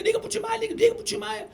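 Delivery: high-pitched imitated tearful pleading; crying secretary. Crying secretary urging her boss to call a famous singer, mock tearful. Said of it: "Ela chorando".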